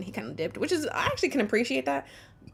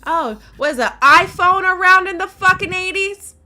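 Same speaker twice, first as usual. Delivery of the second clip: angry; 8 semitones higher, 8 dB louder than usual. Real, not acted. Angry debate rebuttal.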